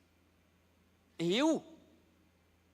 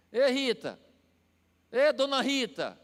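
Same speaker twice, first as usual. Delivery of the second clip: mock disrespectful call; 4 semitones higher, 5 dB louder, slower than usual. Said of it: "Eu nunca disse assim".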